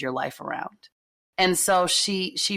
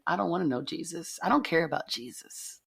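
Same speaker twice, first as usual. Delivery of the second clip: mildly angry refusal; 5 dB quieter than usual. Retold or imitated. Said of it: "I was a little angry and I said".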